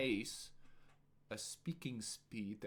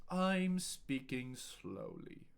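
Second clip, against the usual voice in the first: drawn out word by word; slow, spaced-out delivery; very slow with breaks; slower than usual. Shown as a demonstration. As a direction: take your time over every word. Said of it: "I will say each sentence in a few different ways".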